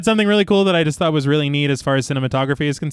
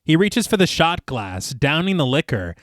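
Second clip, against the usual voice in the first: story narration; slower than usual. Acted. Film podcast host reads the bar scene to co-hosts, measured narration. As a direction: read the scene out steadily.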